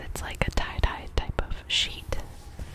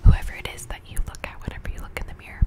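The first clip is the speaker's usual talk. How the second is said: whispered pep talk. Acted. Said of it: "And then the last one is".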